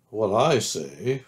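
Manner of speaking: slow, drawn-out grumbler; lightly voiced glum donkey. Eeyore addresses the expedition, lightly glum and slow. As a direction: begin a ponderous complaint.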